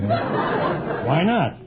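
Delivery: mock-charming coaxing question; put-on charm. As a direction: turn on the charm, playfully obvious. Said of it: "So I'll throw on a charm here".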